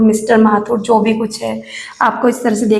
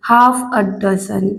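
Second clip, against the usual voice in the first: slow dictation; 4 semitones lower, much slower than usual. Shown as a demonstration. Teacher dictates phrase slowly.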